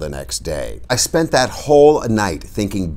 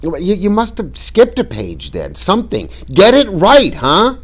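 put-on pleading boy; 12 semitones higher, 5 dB louder than usual. Boy pressing his father.

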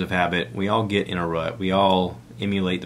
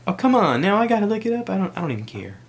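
much higher, louder mock wife; imitating wife; 12 semitones higher, 4 dB louder, faster than usual. Wife reacting to the podcast, mock exasperated much higher voice. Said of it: "my wife's like".

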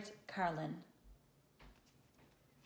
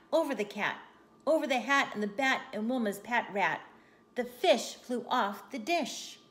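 animated, rhythmic read-aloud; story narration; 4 dB louder than usual. A narrator's reading. Telling children of the flying broom, story narration. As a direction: punch each landing in the chain of events.

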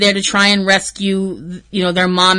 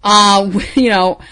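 laughing through tears; much slower than usual. Real, not acted. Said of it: "trying not to cry".

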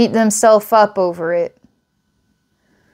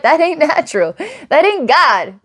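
a lightly put-on hillbilly accent, higher; 7 semitones higher than usual. Hillbilly telling the listener, lightly voiced hillbilly accent. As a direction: play a country hillbilly, half in jest. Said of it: "this hillbilly telling you".

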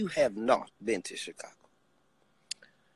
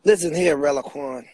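calling out; 4 semitones higher, 8 dB louder than usual. Acted. Addressing Rel mockingly.

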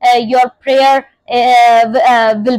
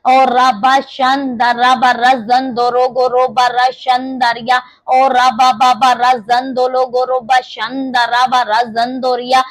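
speaking in tongues. Real, not acted. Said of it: "when you pray in the spirit of tongues".

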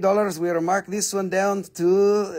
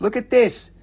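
higher, eager call to look; mildly excited; 4 semitones higher than usual. Real, not acted. Seller showing viewers a blue rock, mildly excited. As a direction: draw their eyes to the rock with interest.

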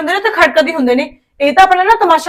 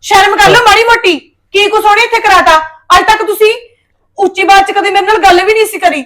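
angry scolding; 4 semitones higher than usual. Acted. Wife scolds husband in quarrel.

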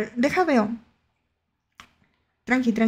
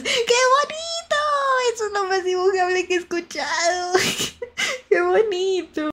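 delighted squeal; 8 semitones higher than usual. Real, not acted. Streamer gushing over a cute talking cloud, delighted squeal. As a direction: squeal with delight, voice near laughing.

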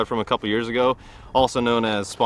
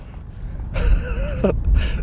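giddy laugh. Real, not acted. Admiring the big fish.

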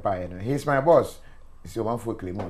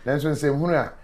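laughing loud retelling; 5 semitones higher, 8 dB louder than usual. Retold or imitated. Host laughing, quoting himself loudly.

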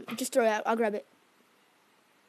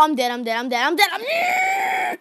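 frantic shouting; 4 semitones higher than usual. Real, not acted. Dies in game, shouting.

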